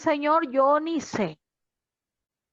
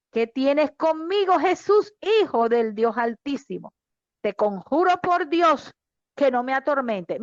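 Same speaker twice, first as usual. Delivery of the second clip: mild loud cry. Retold or imitated. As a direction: cry it out with restrained volume. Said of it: "clamando a gran voz dijo".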